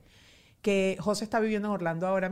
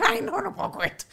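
imitating laughing daughter; 13 semitones higher than usual. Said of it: "la otra se ríe. Dice".

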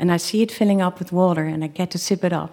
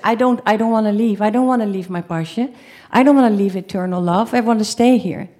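panicked pleading; 3 semitones higher than usual. Retold or imitated. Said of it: "now I truly panic".

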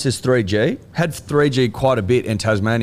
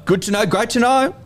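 mock enthusiasm; 11 semitones higher than usual. Mocking echo of a remark.

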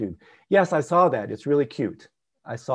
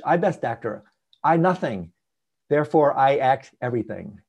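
Tibetan broken English; 4 dB louder than usual. Retold or imitated. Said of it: "in his broken English".

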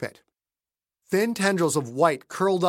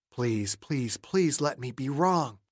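pleading; 2 semitones lower, 4 dB quieter, slower than usual. Acted. Dreading a bomb.

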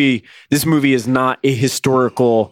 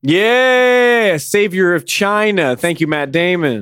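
mock celebration; 5 semitones higher, slower than usual. Co-host joins the mock celebration.

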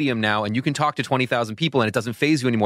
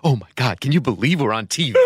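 mock amazement. Mock awe of a veteran host.

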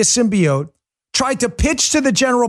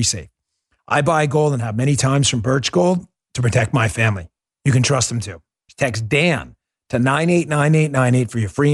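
steady upbeat sponsor read; 9 semitones lower than usual. Acted. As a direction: read it like a radio ad. Host reads gold ad.

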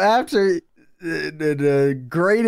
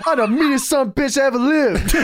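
higher, fast mock boast; Steiner muttering boast; 9 semitones higher, faster than usual. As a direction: rattle off a crazed self-boast. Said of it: "he's just talking to himself".

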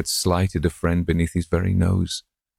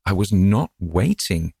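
slow, prim indignation; insist, a touch offended, slowly; indignant; 3 semitones higher than usual. Acted. Old wife correcting husband, mild indignation. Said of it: "she said indignantly".

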